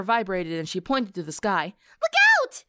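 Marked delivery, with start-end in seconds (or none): 2.0-2.6 high, loud alarmed cry; warning shout. Acted. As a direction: yell a sudden warning. Pinkie warns of attack.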